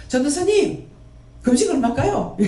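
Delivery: high fawning plea to the evangelist; mock fawning asker. Believer begging the evangelist about fasting, high mock plea. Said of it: "이런 식으로 하는 거라".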